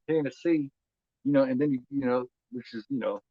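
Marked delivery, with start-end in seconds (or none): 0.1-0.7 lightly put-on country accent, a little higher; country Tennessee accent. Shown as a demonstration. Man showing dialects south of Indiana, light country Tennessee accent. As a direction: say Tennessee with a touch of country twang. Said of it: "a lot more country".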